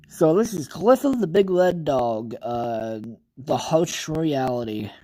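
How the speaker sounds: lightly announced title read; video intro read. Acted. Streamer reads the video's opening line to viewers, a touch announcer-like. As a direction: present the title like a host. Starts reading the video script.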